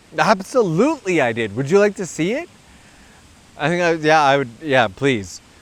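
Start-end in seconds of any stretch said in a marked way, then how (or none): 0.2-2.5 acted, bright, sing-song, very friendly and obliging tone. Retelling a friend's reply to an angry stranger: imitating Lucas's very friendly reply. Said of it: "responded like the most friendly human I have ever seen".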